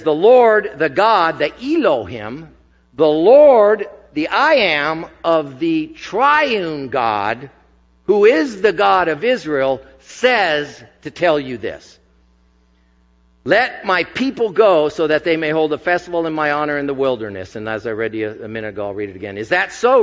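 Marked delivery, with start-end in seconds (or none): 0.0-17.5 proclaiming. Acted. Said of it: "And so he says". 19.4-20.0 retorting Pharaoh. Acted. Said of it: "retorted Pharaoh".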